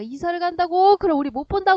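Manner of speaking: shocked questioning. Acted. Boy learning the girl will move away, shocked questioning. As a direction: echo the news as two startled questions. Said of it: "사실은 충격을 받았는데".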